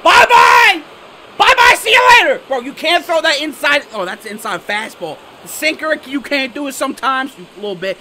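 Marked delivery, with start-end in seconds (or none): 0.0-2.4 loud, higher singsong bye-bye; gleeful taunt. Real, not acted. Gamer taunting as his homer flies out, gleeful shouting. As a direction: gloat as the ball leaves the park. Home run call.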